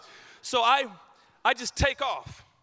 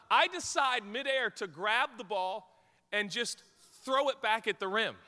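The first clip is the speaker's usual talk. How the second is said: usual speaking voice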